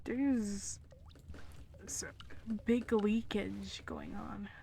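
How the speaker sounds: unvoiced whispered aside. Real, not acted. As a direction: whisper so he won't hear. Whispering aside about narrator.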